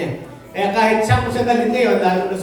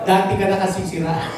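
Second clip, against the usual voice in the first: laughing at own joke; 3 semitones lower, 3 dB quieter than usual. Real, not acted. Pastor jokes, then laughs.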